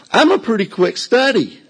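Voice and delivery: high, laughing disbelief; laughing realization. Real, not acted. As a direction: laugh it out as the penny drops. Realizes they are stealing a plane.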